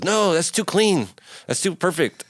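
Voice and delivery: slow, high, emphatic rejection; mock director. Director rejecting a too-clean guitar take, slow and high. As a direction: stretch out the complaint.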